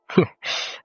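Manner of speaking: short, breathy little laugh; wry chuckle. Real, not acted. Vlogger wishing viewers an easier life, wry chuckle.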